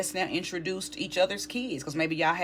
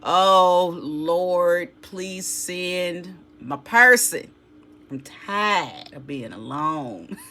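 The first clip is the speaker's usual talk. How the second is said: hammed-up pleading, louder on the Lord part; mock whiny lament; 4 dB louder, slower than usual. A reader mocking a lonely querent's lament, hammed-up pleading. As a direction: playfully whine and beg the Lord, slowing down. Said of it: "You know how you like".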